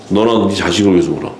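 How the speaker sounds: low, understated retold command; retold stern rebuke. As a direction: drop the pitch and retell the stern order plainly. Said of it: "그냥 막 뭐라 그러잖아요". (낮고 담담하게 엄히 이르는 흉내)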